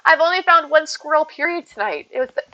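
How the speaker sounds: talking through hiccups; suppressing hiccups. Real, not acted. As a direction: hold back hiccups while talking. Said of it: "I have hiccups all of a sudden".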